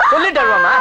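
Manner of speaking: high squeaky teasing whimper; mock whine. Brother teasing his weeping sister, mock high whine. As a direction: imitate her crying, high and whiny.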